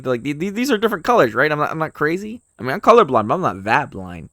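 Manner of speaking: fast, loud, high-pitched rush; excited. Real, not acted. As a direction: blurt it out in excited disbelief. Reacts excitedly to colored letters.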